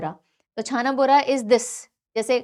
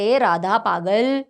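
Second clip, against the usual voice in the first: slow, drawn-out teasing reply; mock retort, dragged out slowly; 3 semitones lower, 3 dB louder, much slower than usual. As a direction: imitate someone answering back, stretching the words. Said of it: "सामने वाला बोलता है".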